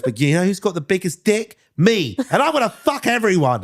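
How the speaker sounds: high rambling boast in a put-on voice; imitating Justin. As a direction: brag it out high and loud like Justin. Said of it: "And he goes".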